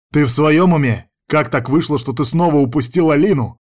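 angry husband shouting at his ex; furious demand. Acted. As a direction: confront her, angry. Angry quarrel with ex-wife.

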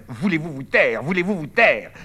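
loud, rising demand for silence; angry shout. Acted. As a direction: yell at them to shut up. Bernard silencing the girls. (ordre crié, de plus en plus fort)

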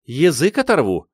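wife threatens to tear out his tongue, mock angry; threatening outburst. A narrator's reading. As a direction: bark the threat at the husband, half in jest. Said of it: "пообещала Анна Григорьевна".

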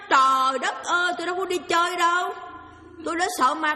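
retold wail of a frightened girl; frightened outcry. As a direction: cry out like a scared girl denying it. Girl's frightened outcry in story.

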